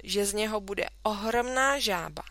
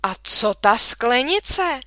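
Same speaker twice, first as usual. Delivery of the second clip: suspicious question; 4 semitones higher, 8 dB louder, slower than usual. A narrator's reading. Mother questions the jar.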